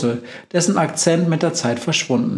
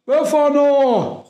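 much higher, drawn-out happy cry; joyful call; 3 dB louder, slower than usual. Acted. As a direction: greet her like a long-lost friend. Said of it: "ruft die Mumie freudig".

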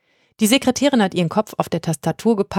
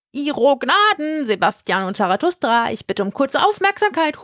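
high, ornate, teasing witch voice; mock formal witch butting in; mock courtly calling; 7 semitones higher than usual. A narrator's reading. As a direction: call out over the crowd, mockingly polite. Witch calls out mockingly.

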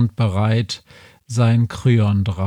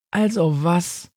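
higher strange sheep voice, rising; 7 semitones higher than usual. A narrator's reading. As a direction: answer like a cheeky sheep. Sheep answers the Major. (freches Schaf)

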